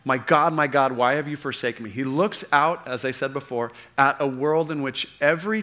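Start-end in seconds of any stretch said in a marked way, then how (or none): 0.0-1.9 a raised, pleading cry to God; preacher voicing Jesus' cry from the cross; anguished cry. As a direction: cry it out in despair. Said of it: "this cry goes out".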